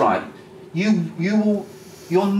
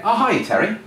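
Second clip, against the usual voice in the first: mock-delighted recognition, pitched higher; imitated friendly greeting; 5 semitones higher than usual. Client recognising the recruiter on the phone, imitated friendly greeting. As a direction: greet a caller like a known friend, lightly acted.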